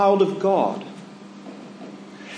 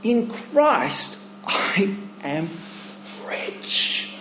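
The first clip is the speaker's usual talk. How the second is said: quiet self-assurance; 4 dB quieter, slower than usual. Shown as a demonstration. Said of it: "you need to say to yourself".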